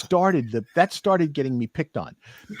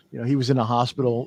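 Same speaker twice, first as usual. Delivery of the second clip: ordinary talk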